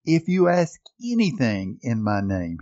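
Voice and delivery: lightly imitated German accent; a hint of a German preacher's accent; Reinhard Bonnke. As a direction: quote it with a touch of German accent. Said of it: "in his strong German accent".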